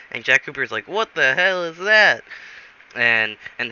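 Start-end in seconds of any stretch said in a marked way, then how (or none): 0.9-2.2 incredulous outburst. Retold or imitated. Baffled reaction to song.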